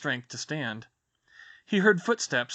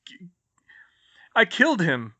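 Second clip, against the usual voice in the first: halting, then whispered; stammering whisper; 6 semitones higher, 6 dB louder than usual. Acted. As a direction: choke out a guilty confession. Shocked confession, stammering.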